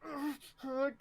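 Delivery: high breath of pain; pained whimper. Acted. Recruit nodding to the instructor, pained gasp. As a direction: wince aloud through the hurt. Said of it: "clearly just in pain".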